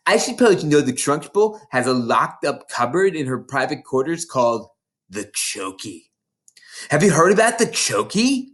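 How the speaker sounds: a lightly voiced big schoolgirl, gloating; bossy older girl. Hortensia sneering at the new girls, mildly voiced. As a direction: relish scaring the little ones.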